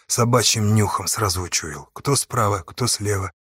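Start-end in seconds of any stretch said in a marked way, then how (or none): none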